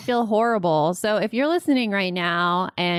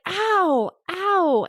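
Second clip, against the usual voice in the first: sister's ow; 11 semitones higher than usual. Retold or imitated. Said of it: "she's like".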